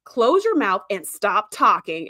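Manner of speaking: slow, measured imitation of a stern command; lightly acted aggression, each word drawn out; mock aggressive order. Riker telling Picard to shut up, mock aggressive. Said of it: "he does it so aggressively".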